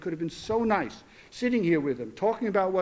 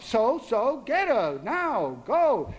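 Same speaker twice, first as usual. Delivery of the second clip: angry order; 4 semitones higher, much slower than usual. Acted. Angry father ordering daughter to fetch sister, sharp. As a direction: push her to go, now.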